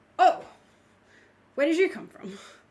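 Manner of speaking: very loud, shrill, jumpy startled outburst. Game master voices a man surprised as the players approach: startled. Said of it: "it's almost like you startle him".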